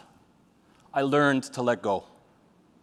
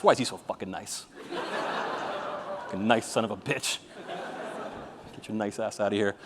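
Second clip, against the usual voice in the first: mock jealous grumble; 5 semitones lower, 10 dB quieter than usual. Mocking a jealous rival.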